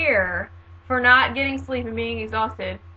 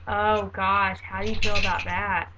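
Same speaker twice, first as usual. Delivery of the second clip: imitating a worried, downbeat reaction; pitying dismay; 3 semitones lower than usual. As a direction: ask it as if the news were grim. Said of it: "say it in that tone of voice".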